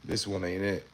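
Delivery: strained after a harsh hit; burning nose and throat. Real, not acted. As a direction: talk through a burning nose. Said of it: "That shit burning my nose".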